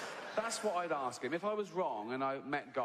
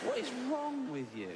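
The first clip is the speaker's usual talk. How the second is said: incredulous high-pitched rant; exasperated high outrage; 11 semitones higher than usual. Retold or imitated. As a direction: pitch leaps higher in disbelief. Outraged question put to God.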